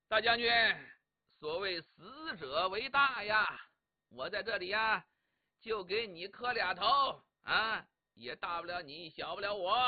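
mock-solemn address to the dead general; declaimed graveside address. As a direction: declaim it grandly, stretching each line's end. Declaims grudging respects to the dead.

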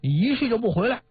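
a hint of an angry general; retold scolding. General scolds the returning man, mild mock anger. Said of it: "副将军大骂说".

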